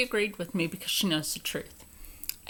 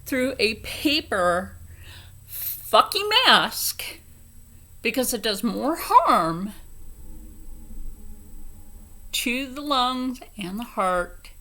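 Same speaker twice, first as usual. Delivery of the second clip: angry retort. Retold or imitated. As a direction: lean hard into fucking mask. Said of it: "And I'm like".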